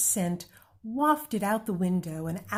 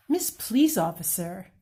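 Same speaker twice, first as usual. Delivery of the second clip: exclaiming; 4 dB louder than usual. Acted. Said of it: "Amu exclaimed".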